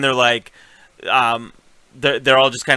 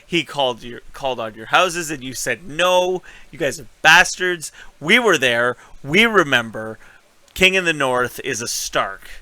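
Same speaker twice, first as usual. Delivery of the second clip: mildly heated retold scolding, louder in bursts; calling them out; 2 semitones higher, 3 dB louder than usual. Girl calls out the houses that said no, mock indignant scolding. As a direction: imitate a girl publicly shaming the lords. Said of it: "She calls them out".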